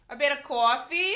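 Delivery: put-on lightly done New York accent. Showing viewers a New York accent, casual New York vowels. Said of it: "You can't do a New York accent?".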